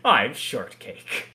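slow, lightly voiced self-important introduction; arrogant actor. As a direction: introduce yourself slowly as a mock haughty star. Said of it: "this is a very arrogant actor".

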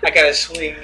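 light imitation Boston accent. Shown as a demonstration. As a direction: try a bit of Boston talk. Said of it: "like how they talk in Boston".

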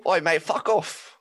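high, drawn-out British yob; slow, high British heckle; mock British accent. Joking about the man in the park, mock British accent. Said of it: "did he have a British ac-, accent?".

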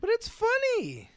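breathy whispered aside. Real, not acted. Whispering a teasing aside to his co-host.

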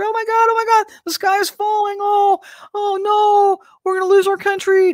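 high, frantic panicking voice; mock panic. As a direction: ham up the sky-is-falling panic. Mocking panicked believers.

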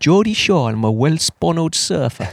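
broad Geordie surfer introducing himself; Geordie accent. Retold or imitated. Cohost jokes on the podcast, in a Geordie accent. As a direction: ham up a Geordie telly surfer. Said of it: "You're good at accents".

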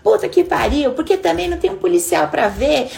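exasperated venting; mock furious rant. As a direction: blame the whole city in a fit. Acts out the angry driver.

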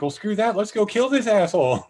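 imitated high-pitched rallying cry; fired up. Rosario Dawson won't be left behind, fired up. Character rallies for the chase.

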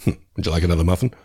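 a hint of a flat Ned impression; lightly voiced Ned; bad Ned voice. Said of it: "I did his bad Ned voice".

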